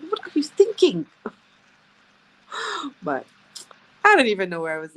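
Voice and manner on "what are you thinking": loud, raised scolding; a mild mock yell at the kids. Mom showing how she yells at her kids, mild mock yell. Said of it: "I yell".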